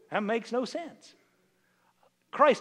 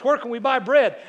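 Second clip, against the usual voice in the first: booming God voice; 3 semitones higher, 7 dB louder than usual. Retold or imitated. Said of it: "God says".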